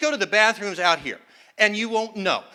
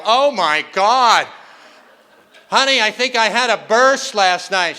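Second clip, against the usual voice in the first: mock shocked gasp; 2 semitones higher, 5 dB louder than usual. Husband to wife at the mirror, mock shocked. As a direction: act stunned by your reflection. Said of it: "flip on the light and go".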